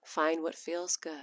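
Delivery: soft, intimate voice guiding gently; soft ASMR voice. Shown as a demonstration. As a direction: breathe the words softly. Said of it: "sexy little A S M R voice".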